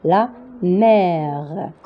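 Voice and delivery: "La mer" said slowly, open drawn-out vowel in "mer"; pronunciation model. Shown as a demonstration. Teacher showing learners how to say "La mer", slowly. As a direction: model "La mer" with a held è before the R. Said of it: "on va la prononcer comme ça".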